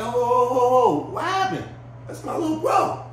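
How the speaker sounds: high-pitched acted interruption, starting loud; hammed-up, high defence of a friend; alarmed intervention. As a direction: jump in to stop a dispute. Acting Tut stepping into the dispute.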